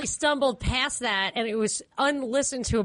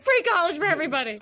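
Bernie slogan; 4 semitones higher, faster than usual. Retold or imitated. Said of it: "And you're like".

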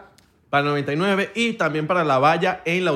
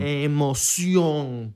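slow, theatrical "Emoción"; drawn-out emoción; much slower than usual. Shown as a demonstration. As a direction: stretch "Emoción" out very slowly. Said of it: "quería darle emoción".

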